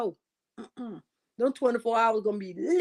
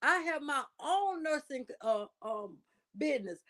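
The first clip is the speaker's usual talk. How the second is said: mock patient protesting; 2 semitones higher than usual. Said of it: "She gonna say".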